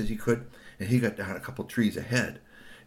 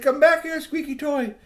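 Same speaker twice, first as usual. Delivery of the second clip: high-pitched holler; calling back; 5 dB louder than usual. A narrator's reading. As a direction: call urgently after a runaway, voice pitched way up. Boys call the toy back.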